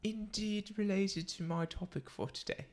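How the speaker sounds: put-on affected British accent. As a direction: slip into a playful British accent. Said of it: "I'm doing this accent".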